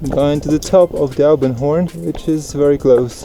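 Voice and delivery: loud, jubilant summit cheer; triumphant shouting. Real, not acted. Finishing the via ferrata.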